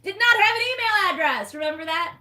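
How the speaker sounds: high, loud shocked exclamation; incredulous shriek. Acted. Mocking the heroine with no email, incredulous shriek. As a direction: shriek it in mock disbelief.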